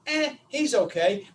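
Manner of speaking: slow, lukewarm shrug of a reply; slow, so-so verdict; noncommittal. Retold or imitated. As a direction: draw it out with an unconvinced shrug. Repeating the lukewarm answer.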